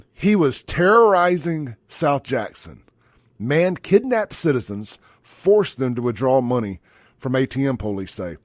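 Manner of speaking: slow, emphatic news headline read. Real, not acted. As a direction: read the headline out slowly, punching the key words.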